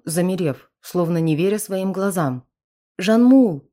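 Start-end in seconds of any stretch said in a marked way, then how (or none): 3.0-3.7 sharp high cry of a name; cried out. A narrator's reading. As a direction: call him out in despair. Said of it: "прокричала девушка".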